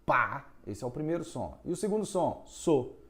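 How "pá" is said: Pá said clearly as the first sound of passo; correct syllable. Shown as a demonstration. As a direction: give Pá as a crisp open syllable. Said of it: "a primeira sílaba é pá".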